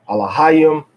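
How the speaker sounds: "Alahayim" with a firm HA; teacher models "Alahayim", stressed next to last. Shown as a demonstration. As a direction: punch the HA in "Alahayim". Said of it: "next to the last syllable is stressed".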